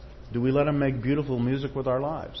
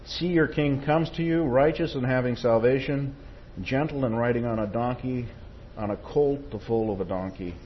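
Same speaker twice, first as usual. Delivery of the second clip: scripture reading. Acted. Preacher reading Zechariah to the congregation, proclaiming. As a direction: announce the prophecy with joy.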